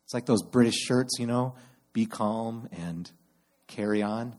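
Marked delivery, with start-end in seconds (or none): 1.9-4.4 calm. Shown as a demonstration. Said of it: "instead just calm".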